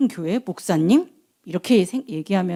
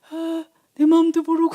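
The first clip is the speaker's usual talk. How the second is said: higher, sighing misunderstood wife; hurt wife; 8 semitones higher than usual. Acted. Hannah reacting to her husband's comfort, hurt and sighing. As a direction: sigh it out like a wife feeling misunderstood. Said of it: "약간 이런 표정인 것 같지".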